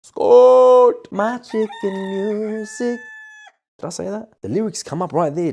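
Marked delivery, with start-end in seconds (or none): 0.0-3.0 mocking. Mocking the girl's mishearing.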